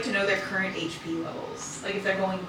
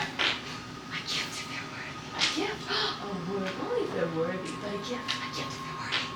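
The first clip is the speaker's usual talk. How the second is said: pixie voice; 5 semitones lower, 10 dB quieter than usual. Acted. GM voicing pixies again.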